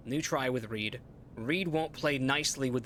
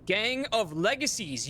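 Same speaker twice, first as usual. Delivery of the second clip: shocked realization; 8 semitones higher, slower than usual. Real, not acted. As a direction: spell out each word as it sinks in. Realizes he was put in Ark.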